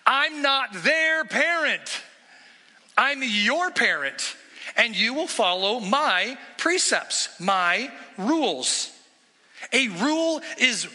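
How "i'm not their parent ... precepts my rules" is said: firm parent reply. Retold or imitated. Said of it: "I say the same things".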